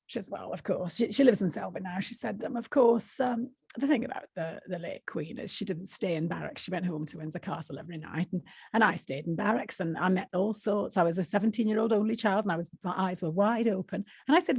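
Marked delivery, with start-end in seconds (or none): 0.3-1.0 quieter, lightly voiced Yorkshire woman; Yorkshire accent. Inhabiting Barbara as she tells her story, light Yorkshire accent. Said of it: "I have to inhabit her". 2.6-14.0 lightly acted Yorkshire storyteller; Yorkshire accent. Barbara recalling her army days, light Yorkshire accent. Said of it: "forgive me for doing a Yorkshire accent".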